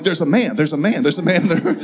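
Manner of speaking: mock-scared, repeated at full voice; retold panic. Husband echoes wife's warning, retold panic. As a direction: babble it in pretend panic. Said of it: "now I'm afraid".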